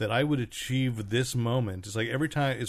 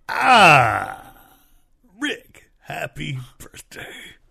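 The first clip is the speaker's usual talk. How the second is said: booming, drawn-out, swooping voice with stretched "ah"; 5 semitones higher, 13 dB louder than usual. Showing how a Charlton Heston voice wishes someone happy birthday. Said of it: "Ralph Garman's impersonation of Charlton Heston".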